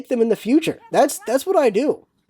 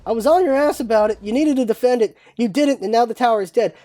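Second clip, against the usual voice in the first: aggressive rant; 2 semitones higher than usual. Retold or imitated. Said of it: "And it's just like".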